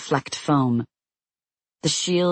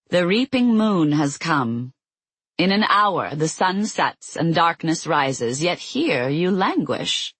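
cackling goddess; 3 semitones higher, slower than usual. Acted. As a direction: gloat like a cackling crone. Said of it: "Eris cackled".

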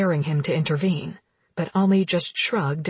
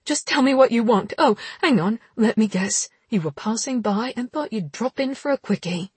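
sarcastic; 4 semitones higher than usual. Acted. Heroine sarcastic and angry.

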